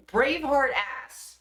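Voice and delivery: "Braveheart ass" as one word Braveheart, said slowly and carefully; said right, slowly. Shown as a demonstration. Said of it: "I could say it now".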